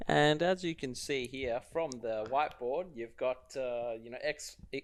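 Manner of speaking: muffled lecturer. Retold or imitated. Mimicking a lecturer walking away.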